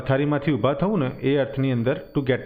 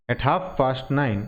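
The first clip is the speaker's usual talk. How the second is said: slow teaching read; much slower than usual. Shown as a demonstration. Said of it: "teacher reading phrase slowly".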